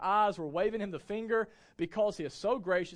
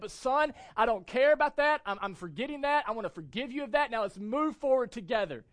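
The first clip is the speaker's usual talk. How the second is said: a hint of a loving divine voice; lightly voiced God telling his son to move on; God's voice; 4 semitones higher, 6 dB louder than usual. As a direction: speak as God lifting up a sinner. Voicing God speaking to him.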